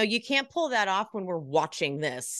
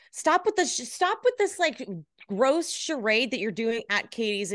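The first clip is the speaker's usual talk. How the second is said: pitched up in exasperation, rising a step each time; exasperated; 4 semitones higher than usual. Real, not acted. Cohost rants at a reality star, voice climbing in exasperation. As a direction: plead higher and higher, fed up.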